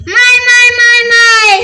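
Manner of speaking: loud startled cries of my; loud exclamation. Acted. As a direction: blurt out my my loudly, amazed at the screen. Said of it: "एवढ्या मोठ्याने काय बोलताय?".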